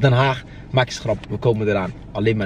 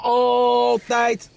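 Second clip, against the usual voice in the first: shouted slogan; 4 semitones higher than usual. Acted. Shouted catchphrase lead.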